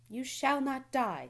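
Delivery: brisk. A narrator's reading. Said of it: "said Charlotte briskly".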